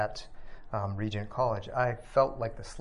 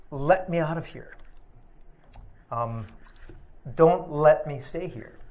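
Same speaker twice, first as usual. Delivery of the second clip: mild mock yell of a frightened son in hospital; retold yelling child; 4 semitones higher, 4 dB louder than usual. Recovering son yelling at his father from the hospital bed, pleading cry. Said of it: "he was yelling at me".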